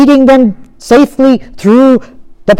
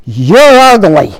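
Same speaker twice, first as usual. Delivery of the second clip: mock harsh scolding; 5 dB louder, slower than usual. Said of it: "look down at your baby and say".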